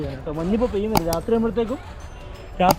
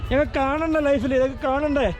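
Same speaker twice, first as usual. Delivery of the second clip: excited; 6 semitones higher than usual. Real, not acted. Awed scenery exclamation.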